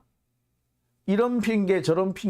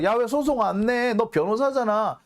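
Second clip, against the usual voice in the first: imagined nagging; 7 semitones higher than usual. Retold or imitated. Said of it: "닥달을 해서".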